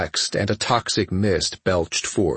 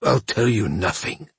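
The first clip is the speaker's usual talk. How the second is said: swearing defiantly; 2 semitones higher than usual. Acted. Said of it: "Vathlas swore".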